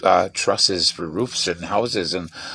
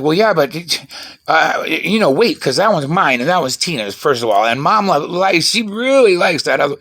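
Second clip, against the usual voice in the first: put-on pleading kid voice; 7 semitones higher, 6 dB louder than usual. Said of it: "And I was like".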